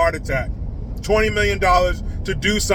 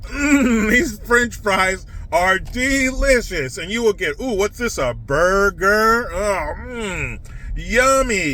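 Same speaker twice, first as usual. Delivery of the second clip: mock de Blasio; slower than usual. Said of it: "and he's like".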